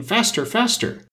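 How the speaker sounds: high, drawn-out urging cry; urgent crying out. A narrator's reading. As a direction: spur them on, stretching each word up high. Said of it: "cried the queen".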